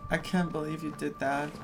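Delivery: ordinary talk, nothing marked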